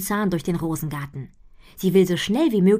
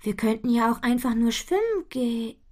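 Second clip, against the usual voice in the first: cut off mid word; 6 semitones higher than usual. A narrator's reading. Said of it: "bricht mitten im Satz ab".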